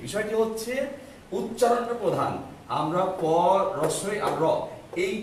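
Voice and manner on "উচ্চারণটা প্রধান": উচ্চারণটা প্রধান, higher with a hard push on উচ্চারণটা; emphatic point. Shown as a demonstration. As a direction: hammer the key point home. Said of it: "আবারও বলছি". (উচ্চারণটা শব্দে জোর দিয়ে উঁচু গলায় বলা)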